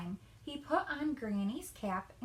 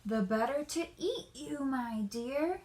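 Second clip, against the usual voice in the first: mild cry; 3 semitones higher than usual. Acted. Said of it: "cried the wolf".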